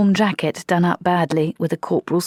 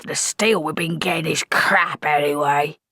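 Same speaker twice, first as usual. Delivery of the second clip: whispered. Acted. Corporal grumbling confidentially.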